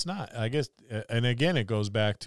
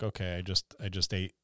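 voiced sleepy snake; 4 semitones lower, 8 dB quieter, faster than usual. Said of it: "a snake or something. It's like".

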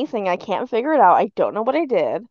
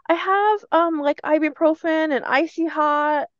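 higher-pitched quote of a coworker; imitated helpful coworker; 5 semitones higher than usual. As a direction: lightly voice a helper's offer, pitched up. Voicing coworker offering remedies.

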